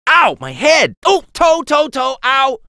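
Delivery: high, loud comic ouches; high-pitched pained cries; yelping in pain. Acted. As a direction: yelp as each knock lands. Hero gets hurt.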